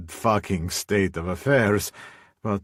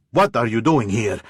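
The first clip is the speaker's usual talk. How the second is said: louder, sharp demand at a threat; barked; 3 semitones higher, 5 dB louder than usual. Acted. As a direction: bark it at the man you fear. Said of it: "I barked".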